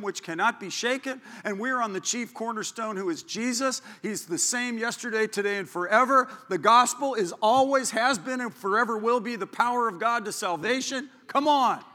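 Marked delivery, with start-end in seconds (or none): 4.0-11.8 full-force preaching. Real, not acted. Preacher rallying the congregation in a loud, fervent voice. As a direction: preach it out with rising fire. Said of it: "forty minutes of preaching right now".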